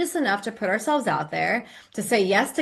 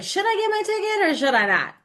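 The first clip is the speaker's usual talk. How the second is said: higher, doubtful voice of a woman unsure about buying a ticket; hesitant woman; 10 semitones higher than usual. Retold or imitated. Host voicing an unsure listener, mock hesitant. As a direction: play the torn would-be guest wondering aloud. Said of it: "the women who's like".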